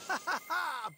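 triumphant mock laugh; villain laugh.

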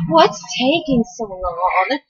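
slow, soft seductive woman voice; sexy woman voice. Acted. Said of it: "She sounded like a sexy woman".

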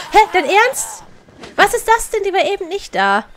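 loud high shocked disbelief; startled, outraged yelling; shocked outburst. Real, not acted. Monster suddenly appears.

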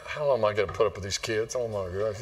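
weary parent. Retold or imitated. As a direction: grumble like a worn-out parent. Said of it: "you feel like as a parent".

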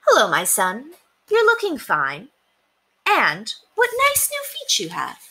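a lightly voiced fond mother; mother's voice. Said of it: "and she said".

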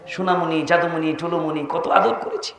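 soft, fond pet names; tender endearments. Acted. Parents addressing their little child, soft and tender. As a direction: coo softly as a doting parent. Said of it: "নরম ভাষায় বাপ মায় কথা বলে নাই?".

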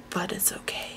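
unvoiced reassuring murmur; whisper. Real, not acted. Overwhelmed by duplicates, whispering reassurance to herself. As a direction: hush it to yourself.

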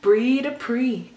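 hyped vlog intro. Real, not acted. Vlog intro greeting to viewers.

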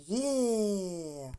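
long, falling cheer on «є»; joyful exclamation. Shown as a demonstration. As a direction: cheer «є» with the children, held long. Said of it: "ви будете радіти і вигукувати". (протяжний радісний вигук «є»)

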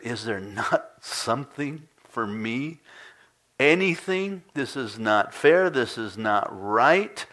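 mock scream of protest, loud and drawn out but held back; pleading outcry. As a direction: plead loudly and slowly at the injustice. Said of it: "he is screaming it out to his father".

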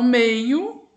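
teacher splitting meio into syllables; slow syllable split. Shown as a demonstration. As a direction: separate the word slowly for the pupils. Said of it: "Faça a separação silábica".

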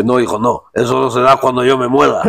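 lightly voiced old king, calm and dismissive; the father king answering his son; old king replying. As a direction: brush off the son like the elderly king. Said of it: "un chiste de los reyes".

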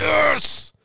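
high excited commentator cheer. Pretend. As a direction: celebrate like a sports announcer. Mock sports commentary cheer.

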